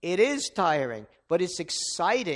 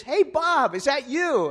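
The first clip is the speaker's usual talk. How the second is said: higher, louder calling out across the street; called out; 8 semitones higher, 6 dB louder than usual. Retold or imitated. Old friend calling out from his porch, glad surprised shout. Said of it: "this guy yells out to me".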